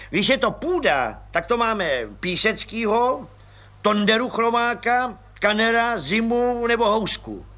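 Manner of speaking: a high, eager little man's voice; high chirpy little agent; Pištora voice. Acted. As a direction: pipe it up like a cheerful small policeman. Pištora lists thieves.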